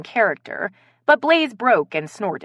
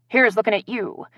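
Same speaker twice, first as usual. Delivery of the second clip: Bogart impression; 4 semitones higher than usual.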